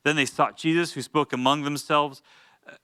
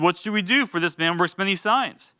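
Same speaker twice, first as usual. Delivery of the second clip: mock worried Pharisees; 4 semitones higher than usual. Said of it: "I'm sure that's exactly how they sounded".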